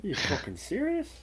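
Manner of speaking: high disbelieving Australian outburst; Australian accent, incredulous. Retold or imitated. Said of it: "Roy can do a really good, uh, Australian accent".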